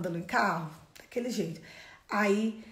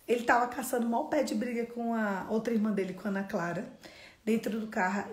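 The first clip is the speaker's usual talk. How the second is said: ordinary talk, nothing marked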